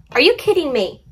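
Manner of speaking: real but tamer exasperation; milder disbelief. Real, not acted. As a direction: repeat "Are you kidding me" half-calmed.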